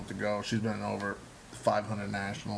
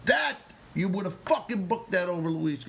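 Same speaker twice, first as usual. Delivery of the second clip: raised, punchy retold exclamation; emphatic approval; 7 semitones higher than usual. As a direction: play the teacher's vehement approval. Retelling the teacher's emphatic approval.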